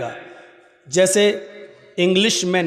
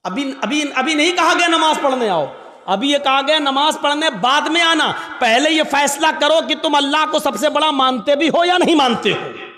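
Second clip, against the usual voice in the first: raised, insistent sermon voice; forceful preaching; 8 semitones higher, 3 dB louder than usual. Real, not acted. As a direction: press the congregation firmly. (ज़ोरदार तक़रीर)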